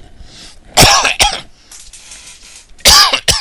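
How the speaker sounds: loud harsh coughing fit. Real, not acted. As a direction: cough hard and long, for real. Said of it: "I'm coughing".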